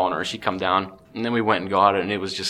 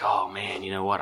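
soft, hushed self-talk while aiming; quiet hunting murmur; hushed inner voice; 2 semitones lower, 6 dB quieter than usual. Retold or imitated. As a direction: keep it down, deer is close. Hunter's inner thoughts in stand.

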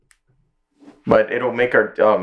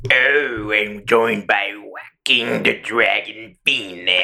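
smooth announcer intro; 3 semitones lower, much slower than usual. Pretend. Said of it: "should have done the intro like".

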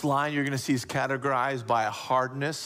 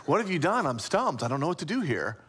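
mock bafflement, pitched up on the question; stumped questioning; 2 semitones higher, faster than usual. Shown as a demonstration. God wrongly imagined as clueless, mock stumped. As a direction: ask as if at a loss. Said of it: "Not like".

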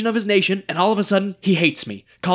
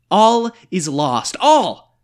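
despairing cry; 4 dB louder, much slower than usual. Acted. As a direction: break into despair. Despairing rant.

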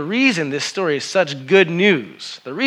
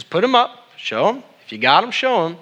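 higher, louder call to wave palms; rallying call; 7 semitones higher, 4 dB louder than usual. Real, not acted. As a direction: fire up the congregation. Preacher rallying congregation to wave palms.

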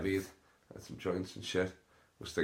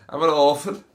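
mocking orphan plea, higher and louder; mock orphan whine; 7 semitones higher, 8 dB louder than usual. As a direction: whine it like a needy kid. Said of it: "their catchphrase".

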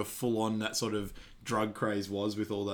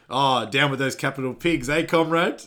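put-on Russian accent; 4 semitones higher, 7 dB louder than usual. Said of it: "He's like".

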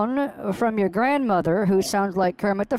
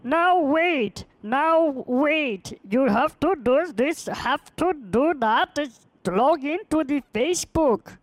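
higher mock of the caller, like a half-cocked Kermit the Frog; mocking impression of caller; 5 semitones higher, slower than usual. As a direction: parody the scammer in a raised, silly voice. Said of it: "That's what you sound like".

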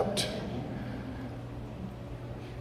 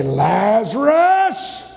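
calling out; 2 semitones higher, much slower than usual. Acted. Acting Jesus calling Lazarus out.

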